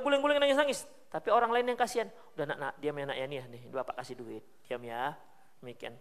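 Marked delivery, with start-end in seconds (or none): 2.3-5.1 put-on softer, coaxing grown-up calming a child; soothing hush. Bystander hushing a crying child, soft and coaxing. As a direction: hush the kid gently, handing over money.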